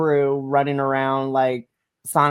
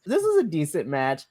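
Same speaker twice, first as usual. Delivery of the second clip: ordinary talk, nothing marked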